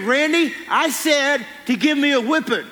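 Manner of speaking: a stern dad yelling his son's name, not full force; retold holler. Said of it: "he hollered at me".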